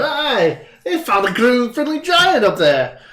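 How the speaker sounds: high, loud shouted call. Acted. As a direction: call back to the hunters. GM rider calls to party.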